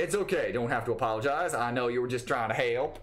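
put-on light southern accent, forgiving; gentle touch of southern twang. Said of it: "When did she get a southern accent?".

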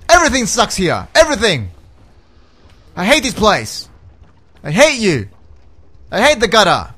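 loud, high, emphatic bursts of hate; legitimately angry. Real, not acted. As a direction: spit out each grievance separately. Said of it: "I am legitimately angry right now".

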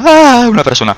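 high, loud mock scream at seeing someone; hammed-up panic yell; mock startled shriek. Shown as a demonstration. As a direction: shriek like a shy person spotting a human. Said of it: "Cuando veo a una persona digo".

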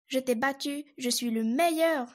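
proud, bragging claim of victory; boastful cry. Acted. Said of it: "s'écria à nouveau Castor".

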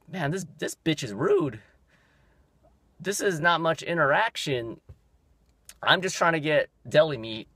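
mildly indignant venting; exasperated inner rant. Retold or imitated. Acting out his exasperated thoughts.

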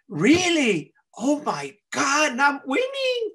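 put-on high, thrilled kid winning; overjoyed. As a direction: stretch it out, soaring into glee. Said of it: "I'm so happy".

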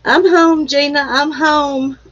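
high, loud singsong call. Acted. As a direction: call it out like walking in the door. Calling out arriving home.

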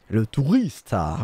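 slow, savoured "tourista" with a light Spanish accent; a hint of a Spanish accent for the tourists; mock Spanish accent. Shown as a demonstration. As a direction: draw out "tourista" as if it were Spanish. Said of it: "avec un bel accent".

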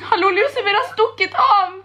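feigned panic. Pretend. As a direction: pretend the cat has run away. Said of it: "så skal jeg si".

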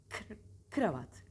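kr-, kravat, slow, with the consonant cluster pulled apart; split kravat. Shown as a demonstration. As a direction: separate the kr in kravat. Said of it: "Böyle çalışın".

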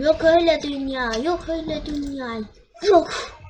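outraged protest at the ref; loud protest. Real, not acted. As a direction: refuse it out loud. Refusing a disallowed goal.

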